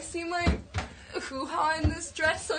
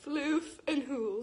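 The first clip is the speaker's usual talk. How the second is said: band intro; slower than usual. Pretend. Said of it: "introduce us like that".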